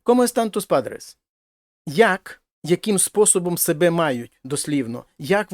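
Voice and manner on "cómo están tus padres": higher, clear model reading; teacher's model sentence; example sentence read out. Shown as a demonstration. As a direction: present "Cómo están tus padres?" clearly. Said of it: "teacher models example sentence".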